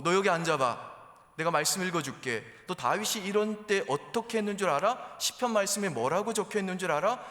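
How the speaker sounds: loud, high-pitched lecturing mom; spiritual nagging. Acted. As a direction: nag hard with pointed Bible questions. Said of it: "이렇게 막 영적인 잔소리를 하세요".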